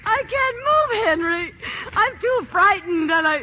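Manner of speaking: high, slow, trembling fear; wife too scared to leave her bed; frozen with fear. Acted. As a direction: barely get the words out in terror. Paralysed with fear on phone.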